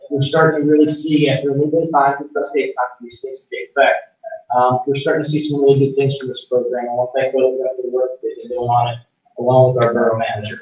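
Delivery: muffled remote audio; words dulled and unclear. Real, not acted. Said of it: "it's, it's still very muffled".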